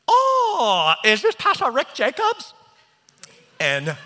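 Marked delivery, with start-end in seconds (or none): 0.1-2.5 high, loud imitation of an Asian-accented caller; enthusiastic Asian accent. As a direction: mimic an over-eager caller in an Asian accent. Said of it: "calling me with such enthusiasm, speaking to me in his Asian dialect".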